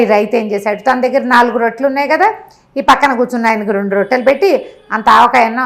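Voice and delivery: plain reading voice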